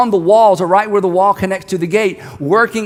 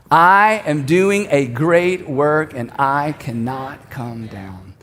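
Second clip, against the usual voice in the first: leading a group recitation; 4 semitones lower, much slower than usual. Real, not acted. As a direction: lead them word by word, easing down to a hushed close. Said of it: "I want us to say it".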